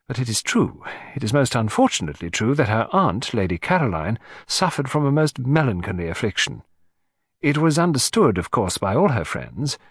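lightly voiced anxious gentleman; a hint of a troubled client; cornered collector. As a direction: give in and confide a family scandal.

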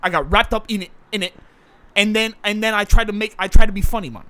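defensive South London man, pleading his case; put-on South London accent; South London actor character.

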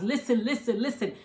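playful. Real, not acted. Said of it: "I'm gonna say it three more times".

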